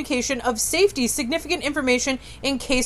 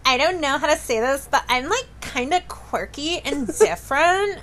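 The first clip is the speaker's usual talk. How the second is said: mock influencer girl talking about herself; 4 semitones higher than usual. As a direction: play the quirky influencer girl. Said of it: "You do that voice, like, so well".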